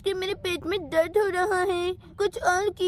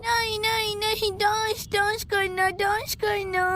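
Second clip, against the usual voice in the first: put-on childish demand; 3 semitones higher than usual.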